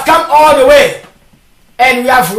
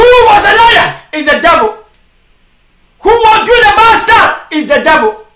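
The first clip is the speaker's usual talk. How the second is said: full-force preaching; 3 semitones higher than usual. Real, not acted. Preacher challenging officials to do right, forceful preaching. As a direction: preach it hard, question after question.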